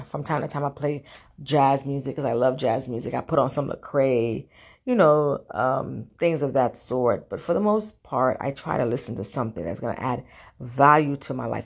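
rough morning voice. Real, not acted. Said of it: "pardon my voice, I just woke up".

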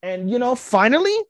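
high, loud gushing about the episode; excited. Real, not acted. Fan gushes to cohost about the anime episode, excited. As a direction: rave like a thrilled fan.

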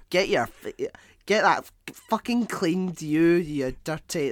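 loud, stumbling, sweary telling-off; mock angry scolding. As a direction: rant at the unwashed. Acted rant at dirty people.

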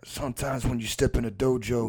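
drawled martial-arts tough guy; mock-wise action star; Steven Seagal impression. Co-host talking dojo as the star, drawled impression. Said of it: "the one he's got now where he's like".

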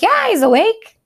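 puzzled yes. Retold or imitated. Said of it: "I was like".

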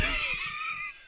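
very high-pitched burst of laughter; high squealing laugh. Real, not acted. Laughs at absurd character description.

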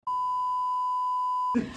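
squeaky laughing fit; helpless high-pitched laugh; high squealing laugh. Real, not acted. Laughing fit after joke.

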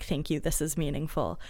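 soft, hushed thanks; very quietly. Retold or imitated. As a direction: say it quietly and sincerely. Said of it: "Neville very quietly saying".

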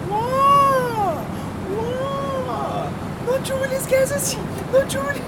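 put-on very high, drawn-out Mandarin-accented protest; imitated Mandarin accent. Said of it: "looking at her face".

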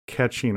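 "catching" set apart slowly, as if in quotes; air-quoted "catching". Shown as a demonstration. Doubting the kids' fishing story, "catching" in slow air quotes. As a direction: put slow verbal quote marks round "catching". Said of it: "in air quotes".

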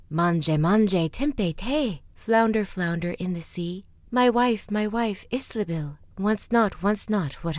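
rhythmic summons, loud on each opening word; calling out. Acted. Man stands at the sea summoning the flounder, calling out. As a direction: call out the rhyme in loud bursts.

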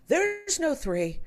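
put-on high, slow stubborn kid; imitating son. Son rejecting option three, high slow stubborn child. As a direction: flatly refuse like a child. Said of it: "And he says".

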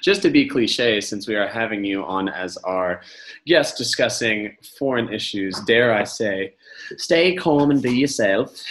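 clumsy fake British accent; playful bad British accent. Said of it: "that was the worst British accent".

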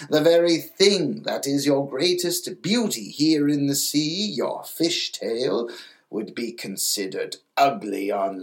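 lightly voiced grandmother, a touch scornful. Grandmother mocking legs to the little mermaid, lightly scornful. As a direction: sneer gently at the humans' taste. Grandmother mocks humans' taste.

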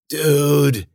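pained rasp, pitched high. Acted. Hurt Ben protests to Cece, rasping. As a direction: rasp it weakly through pain. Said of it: "he rasped".

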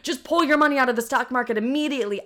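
urgent imitation of a panicking mother; freaking-out mom. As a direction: push it out as a worried order. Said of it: "My mom starts freaking out".

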